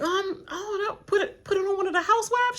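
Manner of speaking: high, fast, through laughing sobs; giggle-whine it out in a rush; laugh-crying. Retold or imitated.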